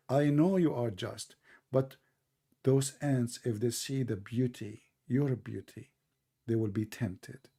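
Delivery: low and soft, a lightly voiced coy little ant. Ant excusing herself to the prophet, low, soft and coy. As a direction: purr the excuse softly like a shy ant. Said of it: "she said to him".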